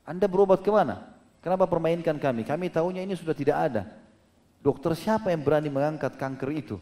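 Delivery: mock-annoyed doctor demanding answers; retold angry doctor. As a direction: lightly act out a doctor's cross questioning. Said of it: "dokternya dalam kisah ini dikatakan sempat marah sama dia".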